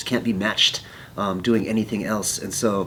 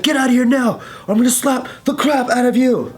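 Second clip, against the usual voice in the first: high, louder mock threat; retold angry threat; 12 semitones higher, 4 dB louder than usual. Aggressor ordering the bystander away, angry. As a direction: act out an aggressor's ultimatum.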